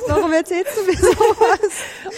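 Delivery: laughing while asking, slowly. Real, not acted. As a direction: laugh through the question. Laughing at the cat videos.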